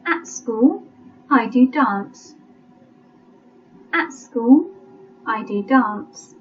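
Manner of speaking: slow, spaced-out dictation reading; measured teacher dictating to a class. Shown as a demonstration. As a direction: read it out slowly with long pauses between phrases. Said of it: "I'll read it slowly".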